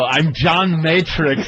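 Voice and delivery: mock Austrian action-star voice; German accent. Action hero introducing himself, German accent. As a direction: give the name in a put-on German accent. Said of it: "With that awful German accent".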